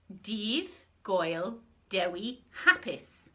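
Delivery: Dydd Gwyl Dewi Hapus slowed, Hapus as HAP-is; Welsh greeting, slow. Shown as a demonstration. The speaker showing the greeting on screen, slow clear pronunciation. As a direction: model the full greeting slowly. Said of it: "which you pronounce".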